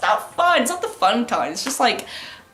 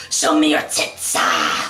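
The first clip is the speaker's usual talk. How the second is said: lower, slow leering guy voice; pervy guy voice; 8 semitones lower, slower than usual. Retold or imitated. Imitating the pervert friend, low leering voice.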